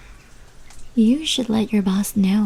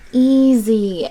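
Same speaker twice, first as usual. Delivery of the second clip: loud calming call; 4 semitones higher, 7 dB louder than usual. Acted. Calming a startled creature.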